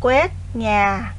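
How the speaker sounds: dictating. Shown as a demonstration. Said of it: "đọc lại một lần nữa các từ đó với cô".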